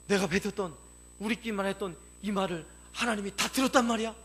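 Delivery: building from faltering to loud incredulity; startled disbelief. Acted. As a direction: act stunned at being overheard. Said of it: "깜짝 놀랐죠".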